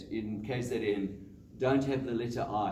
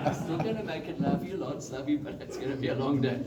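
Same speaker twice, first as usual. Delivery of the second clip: laughing through it; 3 semitones higher, faster than usual. Pretend. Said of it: "borrow a cell phone ... and say".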